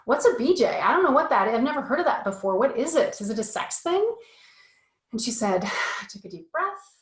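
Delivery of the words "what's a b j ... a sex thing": put-on higher and louder, eager kid voice; a boy tumbling out his questions; curious son. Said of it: "And he said".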